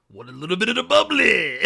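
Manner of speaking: a lightly voiced, laughing offer of champagne; mock offer. Host playing the celebrity offering bubbly, laughing. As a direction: tempt them with it, barely holding a laugh. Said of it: "she turn around and be like".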